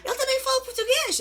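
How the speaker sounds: imitating an excited coworker in Portuguese; excited gasp. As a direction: squeal it out in delight. Coworker gasps, answers in Portuguese.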